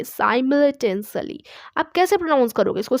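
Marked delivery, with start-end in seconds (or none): 0.0-1.4 simultaneously said slowly, syllable by syllable; careful pronunciation. Shown as a demonstration. Teacher modelling the word simultaneously for students, slow and clear. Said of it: "अब इसको pronounce करना आना चाहिए".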